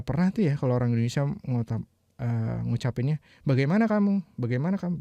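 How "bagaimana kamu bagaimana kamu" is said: 嘲弄生硬直译; mocking stiff phrasing. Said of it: "Bagaimana apaan sih?".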